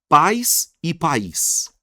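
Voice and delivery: "Pais e país" very slowly, one-beat PAIS, two-beat pa-ÍS; contrasting pronunciation. Shown as a demonstration. Teacher contrasts pais with país for students, slow and clear. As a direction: draw out "Pais e país" to contrast diphthong and hiatus. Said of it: "Olha a diferença da palavra pais".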